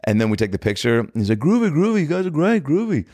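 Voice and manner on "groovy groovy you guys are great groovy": high, cartoonish British approval; a famous singer. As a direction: gush in a high mock-British voice. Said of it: "Literally saying groovy".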